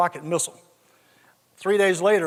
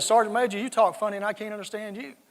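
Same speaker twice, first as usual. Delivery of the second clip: indignant retort; 3 semitones higher than usual. Retold or imitated. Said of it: "My little redneck hair stood up".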